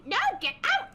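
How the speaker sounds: high, loud, sharp refusal; angry shout. Acted. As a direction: cut him off and yell him out. Sister throws out pouting brother.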